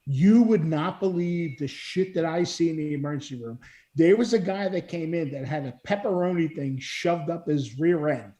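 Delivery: lightly imitated Brooklyn accent; a hint of Brooklyn in the voice. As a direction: retell it with a touch of Brooklyn. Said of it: "in her Brooklyn accent".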